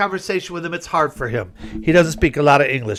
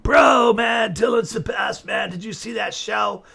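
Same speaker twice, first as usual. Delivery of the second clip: higher, hammed-up dude-bro gushing; mock stoner voice, slow and higher; stoner fan chatter; 5 semitones higher, slower than usual. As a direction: imitate an excited hippie fan. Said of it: "this was the crowd chatter".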